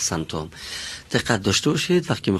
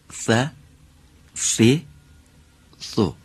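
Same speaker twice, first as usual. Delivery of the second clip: Arabic letters "ف، ف، سو" with the tongue between the teeth; full Arabic accent; 3 semitones higher, 3 dB louder, much slower than usual. Shown as a demonstration. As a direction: say them like a native Arab. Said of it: "به لهجهٔ کامل عربی. ببینید".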